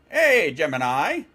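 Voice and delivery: loud, slow call to the assistant; slow wake-word call. Real, not acted. Calling out to voice assistant.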